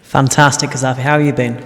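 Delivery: echoey, like speaking in a hall; big hall echo. Real, not acted. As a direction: voice bouncing round a big room. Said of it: "Oh, I sound really echoey today".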